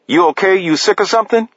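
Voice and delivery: high, startled check on him; suddenly worried call; alarmed concern. Acted. Paris checks on fallen man.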